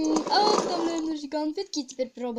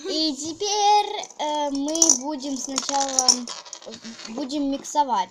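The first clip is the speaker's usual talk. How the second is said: loud; 6 dB louder than usual. Real, not acted. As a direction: announce it loudly. Loud presenting to camera.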